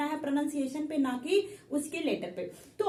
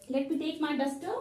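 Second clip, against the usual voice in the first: slow aside; much slower than usual. Real, not acted.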